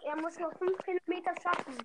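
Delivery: whispering. Real, not acted. Aside while friend jogs.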